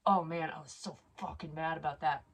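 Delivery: normal talking voice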